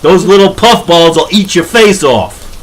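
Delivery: emphatic New York warning; earnest warning. Acted. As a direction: warn them off with mock-serious alarm. Warns that little dogs are mean.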